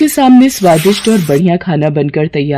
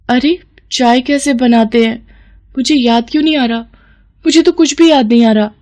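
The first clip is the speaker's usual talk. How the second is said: worried bewilderment; 5 semitones higher than usual. Acted. Spell fails, she panics over forgetting.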